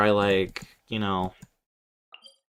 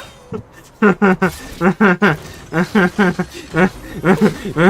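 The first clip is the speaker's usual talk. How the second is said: a big real burst of laughter; a real loud laugh; 7 semitones higher, 8 dB louder than usual. Real, not acted. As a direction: laugh out loud, falling away. Streamer laughs at game clip.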